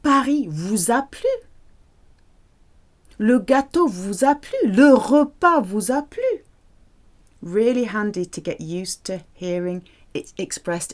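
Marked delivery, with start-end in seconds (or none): 0.0-6.4 higher rising questions; asking question. Shown as a demonstration. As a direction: ask like a host checking on guests. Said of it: "In the past".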